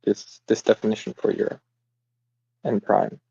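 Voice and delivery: muffled, as if behind a hand. Real, not acted. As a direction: talk through a covered mouth. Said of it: "you're a little muffled".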